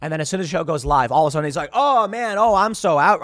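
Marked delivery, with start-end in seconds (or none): 1.7-3.2 loud, high-pitched mock whine; hammed-up exclamation, louder and higher; mock complaining. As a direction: imitate someone making a big show of quitting. Mimicking guest's sudden complaint on air.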